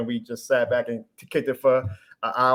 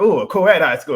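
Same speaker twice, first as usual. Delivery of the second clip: 1 excited ooh; 4 semitones higher, 8 dB louder than usual. Retold or imitated. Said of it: "So I was like".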